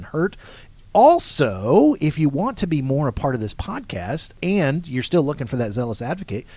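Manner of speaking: big promo host voice; radio announcer voice. Acted. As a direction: sell it like a radio ad. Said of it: "I like that radio announcer voice".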